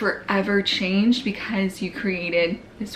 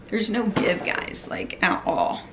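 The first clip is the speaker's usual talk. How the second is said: whispering; slower than usual. Real, not acted. Poking belly, sudden whisper.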